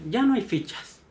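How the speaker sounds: anuncio alzado. Retold or imitated. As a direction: announce it up high to the whole line. (anuncio en voz alta imitado)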